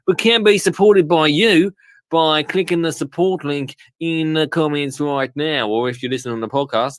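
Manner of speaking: mock Australian accent. Host reading the support plug to viewers in mock Australian accent. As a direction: play a jokey, half-hearted Australian presenter. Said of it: "Let's do this whole thing as Australian".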